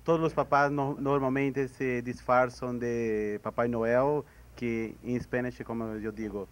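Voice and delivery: Spanish and Portuguese mix; portunhol. Shown as a demonstration. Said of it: "Eu vou tentar falar em portunhol".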